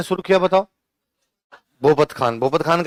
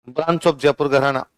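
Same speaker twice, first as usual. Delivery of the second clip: slow dictation; 3 semitones lower, slower than usual. Shown as a demonstration. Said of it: "लिखो पटियाला के नीचे".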